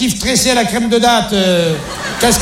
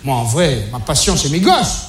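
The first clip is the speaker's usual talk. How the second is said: tender confession; 6 semitones lower than usual. Acted. Confesses his love for kids.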